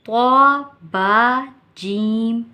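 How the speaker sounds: ordinary talk, nothing marked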